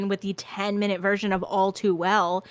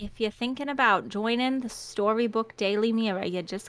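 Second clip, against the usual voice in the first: put-on Audrey-style New York accent; hammy musical-theatre New York accent; Little Shop of Horrors accent. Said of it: "Little Shop of Horrors accent".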